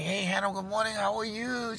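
high, bright-eyed hello to a friend; chirpy greeting. Retold or imitated. Narrator greeting barista Hannah, high cheery hello. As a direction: sing out a cheery good morning.

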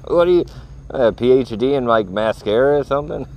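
hammed-up mocking taunt; mocking jab. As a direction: ridicule the pretty-boy doctor. Mocking handsome doctor.

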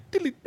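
quick high-pitched "diddly" string noise; tweaky noise imitation. Describing the game's scary violin strings, imitated tweaky noises. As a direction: mimic tweaky little horror-score noises. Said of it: "little tweaky noises and stuff".

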